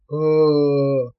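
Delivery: low, loud creature shriek; squealing devil scream. A narrator's reading. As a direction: scream like a falling old devil. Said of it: "заверещал старый чёрт". (визг старого чёрта)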